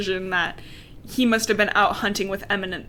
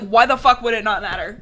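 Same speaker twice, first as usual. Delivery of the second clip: mock exasperated, a little louder; freaking out; 5 dB louder than usual. Retelling the vampire losing it at her, mock freaking out. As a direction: act out a mild freak-out. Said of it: "he's, like, freaking out".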